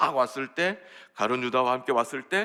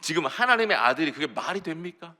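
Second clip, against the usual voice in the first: higher-pitched, pleading objection; indignant protest; 6 semitones higher, 4 dB louder than usual. Acted. Peter arguing with Jesus over his coming death, indignant protest. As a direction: argue it out, stretching the big words. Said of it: "예수님 붙들고 항변했습니다".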